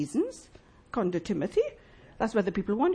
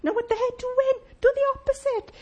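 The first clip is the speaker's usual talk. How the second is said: emphatic Jesus quote; 12 semitones higher, 5 dB louder than usual. Retold or imitated. Preacher voices Jesus to the congregation, loud and high. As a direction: call it out with rising force. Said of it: "And Jesus says".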